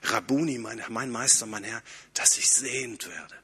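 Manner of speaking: a blind beggar humbly addressing Jesus; humble plea. Retold or imitated. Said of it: "mit einer anderen Betonung".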